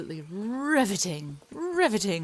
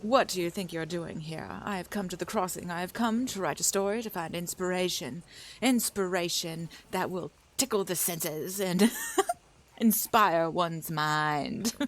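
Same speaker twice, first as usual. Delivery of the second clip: grand mid-Atlantic declaration breaking into laughter at the end; transatlantic accent. Acted. Writer character announces her arrival, transatlantic accent. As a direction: play the writer seeking inspiration in old-film diction. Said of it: "That's the accent I've been trying to catch".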